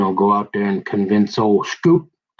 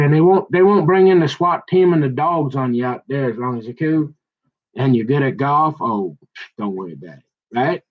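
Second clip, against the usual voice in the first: put-on street talk; 3 semitones higher than usual. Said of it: "quit talking like you're black".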